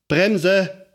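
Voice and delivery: put-on high, rising child's shout to brake; a panicked little girl yelling to stop; shouted cry. A narrator's reading. Lotta on the runaway bike yells for the brake. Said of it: "schrie Lotta".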